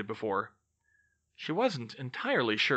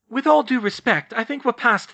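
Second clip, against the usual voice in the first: firm pushback; 10 semitones higher, 8 dB louder than usual. Acted. Hermione pushes back.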